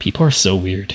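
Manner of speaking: bat voice, muttered quietly under the breath. Voicing a bat that mutters under its breath about people: bat muttering under its breath. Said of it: "you hear the bat mutter under its breath".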